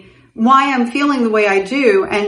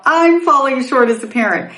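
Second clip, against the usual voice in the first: mocking; 5 semitones higher than usual. Mocking mother's judgment, laughing.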